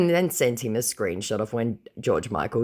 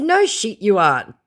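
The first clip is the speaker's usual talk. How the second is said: unvoiced whisper, dry and scornful; whispered retort; 10 semitones higher, 8 dB louder than usual. Snapping at the scammer in a scornful whisper. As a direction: hiss the retort.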